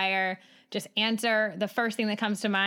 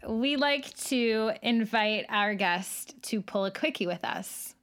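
slow, light Midwest accent; a hint of Midwest accent on "quickie"; slower than usual. Real, not acted. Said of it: "my Midwest accent came out a little bit".

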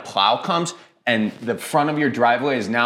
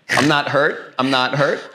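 mock hurt; 3 semitones higher, 3 dB louder than usual. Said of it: "I'm just wounded".

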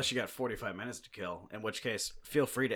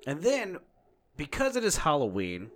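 higher-pitched, suspenseful build-up; show announcer; 7 semitones higher, 5 dB louder than usual. Acted. Host building up the Halloween guest, excited announcer. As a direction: tee up the special guest.

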